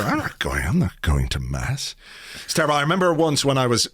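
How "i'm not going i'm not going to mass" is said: put-on sulky teen. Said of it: "you're a teenager and you go".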